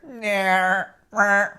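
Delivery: mock goat bleat, nyeh mwah. Shown as a demonstration. Teller bleating as the goat, admits it's wrong. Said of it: "that's the wrong sound".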